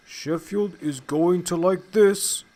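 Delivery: slow, sly, menacing gloat; gloating villain. Acted. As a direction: savour the scheme slowly.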